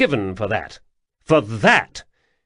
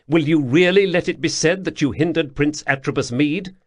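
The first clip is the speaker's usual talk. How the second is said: gentler prince, persuading; the prince softening to win the old soldier over; softened tone; 4 semitones higher, 4 dB louder than usual. Acted. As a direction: ease off and appeal to him. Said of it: "Atribus softened his tone".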